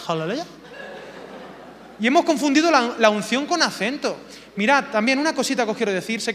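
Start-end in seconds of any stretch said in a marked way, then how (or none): 0.1-0.5 mock American hallelujah, rising at the end; North American accent. Preacher parodying pastors' borrowed North American accent. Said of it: "y ponen acento, mm, norteamericano".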